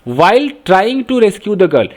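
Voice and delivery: very slow, clear; unhurried teacher read-out. Shown as a demonstration. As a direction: read it out for the class. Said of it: "while का मतलब है".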